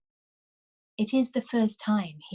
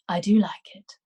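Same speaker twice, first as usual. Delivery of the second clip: whispering. Acted. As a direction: whisper it tenderly. Quiet lovers' conversation.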